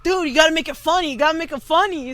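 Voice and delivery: fast, pushy repetition; fast, insistent friend voice; eager urging. Retold or imitated. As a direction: hurry him to make it funny. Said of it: "Avi was like".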